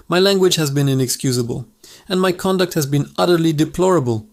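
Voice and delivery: understated, prim and humble apology; a lightly voiced reformed parrot bowing and scraping; polite, humble voice. Chastened parrot apologizing to Mrs Higgins, mildly humble. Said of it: "in the most polite, humble voice imaginable".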